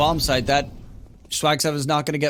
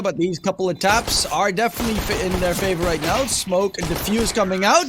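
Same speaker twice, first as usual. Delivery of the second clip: steady live play-by-play call; esports caster; 2 semitones higher than usual. Acted. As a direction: narrate the retake as it unfolds. Casting the retake live.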